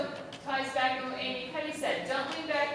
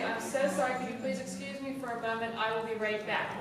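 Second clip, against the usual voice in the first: softer, polite phone voice; polite phone apology; 4 semitones lower, 3 dB quieter than usual. Shown as a demonstration. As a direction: excuse yourself courteously on the phone. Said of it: "interrupt and say".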